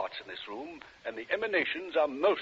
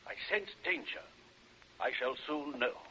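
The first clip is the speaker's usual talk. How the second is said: hushed warning; 2 semitones lower, 7 dB quieter than usual. Acted. Psychic senses evil in house.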